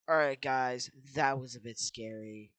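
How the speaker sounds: excited. Real, not acted. Relief after escape.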